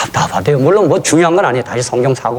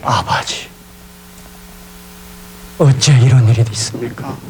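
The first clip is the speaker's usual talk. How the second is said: a hint of North Korean dialect in a pleading prayer; lightly voiced North Korean preacher praying over the dead man; 2 semitones higher than usual. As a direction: pray in a North Korean dialect, begging God. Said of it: "북한 사투리로".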